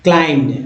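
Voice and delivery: क्लाइंब्ड as "klaimd", b left out; silent b. Shown as a demonstration. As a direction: say क्लाइंब्ड with m running into d. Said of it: "बी यहाँ भी silent".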